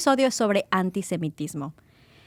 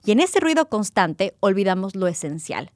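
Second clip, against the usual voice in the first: measured, earnest opening read over music; scripted narration. Acted. Podcast host reading the opening script to listeners, measured narration. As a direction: read the intro like a documentary voiceover.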